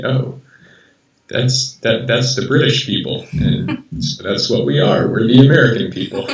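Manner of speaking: lightly acted hillbilly accent. Hometown folks on meeting someone from the UK, hillbilly accent. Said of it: "I really like that accent that you just did".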